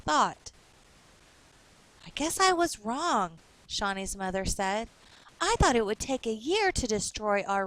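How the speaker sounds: put-on clear, lively reading for children; story narration. A narrator's reading. Teacher reading a storybook aloud to kids. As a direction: read the picture book to young listeners.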